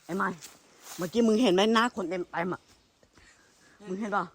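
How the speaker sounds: real terror, voice shooting up in panic; scared shout at a face in the woods; panicked fear. Real, not acted. Seeing a face in the forest.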